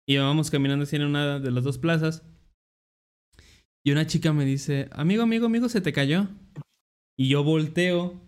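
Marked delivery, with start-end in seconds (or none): 4.9-6.3 lightly voiced street seller, higher pitch; mock vendor hook, pitched up; street seller's call. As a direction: call after a passer-by, imitating a vendor. Acting the bracelet seller's approach.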